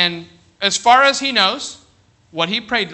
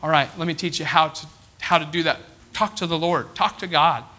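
gentle dad; 3 semitones lower, 4 dB quieter than usual. Retold or imitated. Dad gently teaching scared kid.

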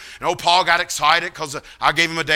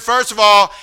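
higher, childlike imitation with w for l and r; pitched-up, level, heartfelt declarations; Paul preaching; 3 semitones higher, 5 dB louder than usual. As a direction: imitate an earnest, simple young man testifying. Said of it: "He said".

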